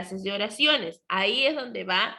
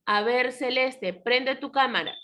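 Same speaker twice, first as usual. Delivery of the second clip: slightly raised teacherly command; order; 4 semitones higher than usual. Shown as a demonstration. Teacher demonstrates an imperative to a pupil, mildly ordering. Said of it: "Estoy expresando una orden".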